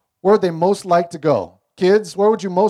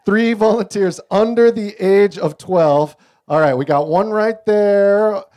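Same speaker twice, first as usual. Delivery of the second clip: louder, slower call to the room; 3 semitones higher, 5 dB louder, slower than usual. Real, not acted. Pastor calling kids up to the front, loud and slow. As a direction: call out for volunteers.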